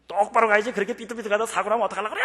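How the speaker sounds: high, fast woman's scolding, imitated; scolding shout. Scooter rider yelling at a wobbly cyclist, mock scolding shout. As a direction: imitate an angry passer-by yelling. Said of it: "하고 소리 질러".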